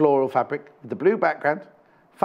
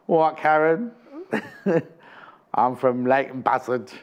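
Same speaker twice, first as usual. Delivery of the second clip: lightly voiced impression of a local woman; a hint of a put-on Leighton Buzzard voice; Hannah; slower than usual. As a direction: imitate a coworker with a light touch. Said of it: "she talks like this".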